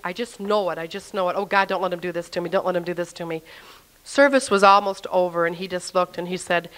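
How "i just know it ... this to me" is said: quick, hushed muttered prayer; retold anxious plea. Thinking to God as the pastor nears, hushed mock pleading. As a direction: plead under your breath, speeding up.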